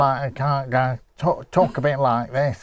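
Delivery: lightly nasal Grimsby demo; a hint of nasal Grimsby accent; nasally Grimsby accent. Shown as a demonstration. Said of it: "they tend to be a bit nasally".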